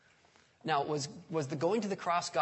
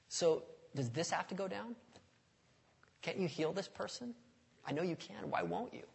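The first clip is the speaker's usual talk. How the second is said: pleading prayer; 4 semitones higher than usual. Acted. Voicing a troubled prayer for healing.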